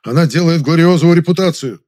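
contemptuous huff; snorting disdain. Acted. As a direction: scoff at the very idea. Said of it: "фыркнул Завадский".

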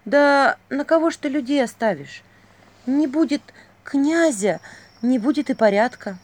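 выше и громче, с нажимом; пристыди его горячо; горячий укор. A narrator's reading. Василиса укоряет князя. (горячо укоряя, выше и громче)

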